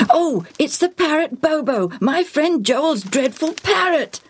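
put-on high-pitched boyish outcry; alarmed exclamation. A narrator's reading. Boy jumping up at his friend's parrot, exclaiming. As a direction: exclaim in dismayed recognition.

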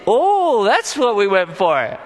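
mock sudden realisation. Guards answering the chief priests, mock dawning realisation. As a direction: play a forgetful guard suddenly remembering. Guards remember their forgotten errand.

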